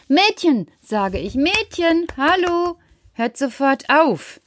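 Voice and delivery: höher rufend, dann langsam; ermahnen. Acted. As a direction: ruf die Mädchen zur Ordnung. Erzähler ruft Streitende zur Ordnung. (Peter ruft die zankenden Mädchen zur Ordnung)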